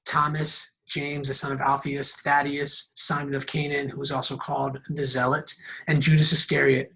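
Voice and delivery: steady, measured reading of the passage; scripture reading. Acted. Pastor reading Mark to the congregation, measured and steady. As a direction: read it out for the church to follow. Reads Mark chapter three.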